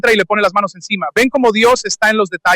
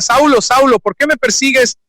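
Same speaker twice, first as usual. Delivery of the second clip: voice of Jesus calling; 4 semitones higher than usual. Acted. Jesus calls Saul in scripture.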